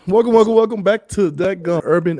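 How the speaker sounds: big high excited hello; hype greeting. Real, not acted. Host opening the show, excited high greeting. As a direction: pump up the audience.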